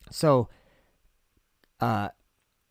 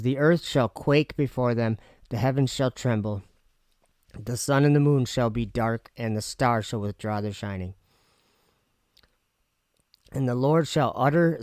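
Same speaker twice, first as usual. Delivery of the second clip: reading with candy in mouth. Real, not acted. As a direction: talk around a candy in the mouth. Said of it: "sorry, I have candy in my mouth".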